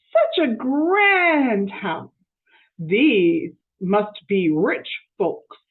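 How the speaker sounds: impressed maid voice, stretched out; awed Amelia Bedelia. Acted. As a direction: marvel slowly at the grand house. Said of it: "said Amelia Bedelia".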